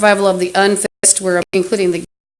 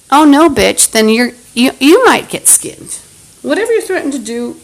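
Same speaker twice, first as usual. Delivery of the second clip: louder, higher furious comeback; angry threat; 5 semitones higher, 4 dB louder than usual. Real, not acted. Answering the bum's skinning threat with a louder, higher angry retort. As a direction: throw the threat right back, heated.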